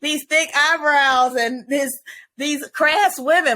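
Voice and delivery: looking down on the Jersey cast; mock snooty viewer. Viewer sneering at the Jersey wives. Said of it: "And I was like".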